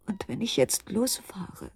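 langsam, tonlos geflüstert; flüstere zögernd den Gedanken; Flüstern. Acted. Grübeln am Krankenbett. (langsames Flüstern)

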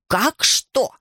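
grandma flaring up at her grandson. A narrator's reading. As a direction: snap back, riled up. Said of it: "вспылила бабушка".

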